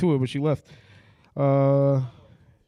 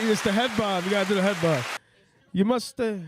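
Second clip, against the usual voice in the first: put-on comic Indian accent, improvised; 3 semitones higher than usual. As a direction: keep up a joking Indian accent. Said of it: "the speaker with the Indian accent".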